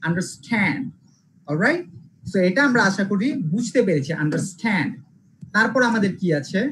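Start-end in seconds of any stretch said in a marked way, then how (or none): 0.1-0.8 আন্ডারস্ট্যান্ড with স্ট্যান্ড punched, then falling; stress on second part. Shown as a demonstration. Teacher demonstrating the verb rule, আন্ডারস্ট্যান্ড stressed on স্ট্যান্ড. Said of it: "second সিলেবলে pressure দিব". 4.2-4.9 আন্ডারস্ট্যান্ড stressed on স্ট্যান্ড; stress on second part. Shown as a demonstration. Teacher recapping for students, আন্ডারস্ট্যান্ড stressed on স্ট্যান্ড. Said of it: "second সিলেবলে pressure দিব".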